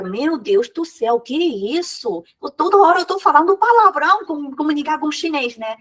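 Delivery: mock alarm, rising high and fast; acted student dismay. Teacher voices a student fearing they keep swearing, mock dismay. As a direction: play a bewildered learner's outburst. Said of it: "Aí você vai falar".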